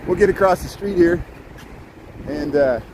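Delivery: breathless after excitement; puffing between words; out of breath. Real, not acted. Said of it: "I'm out of breath".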